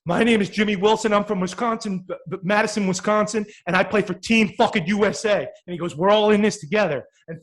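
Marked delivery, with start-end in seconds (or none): 0.1-5.4 higher and louder, shouting his name through exhaustion; defiant player shout. Retold or imitated. Exhausted player shouting his name to his coach, defiant and loud. One of the kids is huffing and puffing. 5.9-7.1 higher, louder team rallying shout; rallying cry. Retold or imitated. Player calling out to his teammates, a loud rallying cry.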